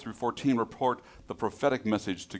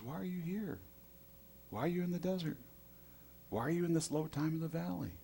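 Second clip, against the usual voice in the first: hushed, higher, gentle questioning; soft voice of God; 7 semitones higher, 10 dB quieter than usual. Acted. God gently asks Elijah why he's here, hushed. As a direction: ask quietly, like a patient God.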